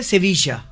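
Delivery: সেভিসা with the double l as স; Argentine way. Shown as a demonstration. Guest shows how Argentines say the city: সেভিসা. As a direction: Argentine সেভিসা, l sound turned to স. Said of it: "ওরা double L কে স উচ্চারণ করে".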